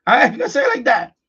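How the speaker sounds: laughing while repeating it; amused laughing repeat. Real, not acted. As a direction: chuckle through the repeat.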